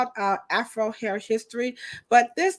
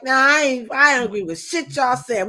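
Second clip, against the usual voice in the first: imitating a doubting viewer; 5 semitones higher, 3 dB louder than usual. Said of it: "It's okay if you're like".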